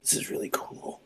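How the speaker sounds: hushed whisper; barely voiced, very quiet aside; Robert. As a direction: whisper it softly, under the breath. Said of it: "he looks at you and he says".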